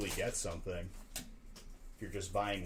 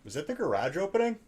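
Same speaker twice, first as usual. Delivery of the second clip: loud call to the next room; 11 semitones higher, 8 dB louder than usual. Real, not acted. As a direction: call out across the house. Calling to someone in another room.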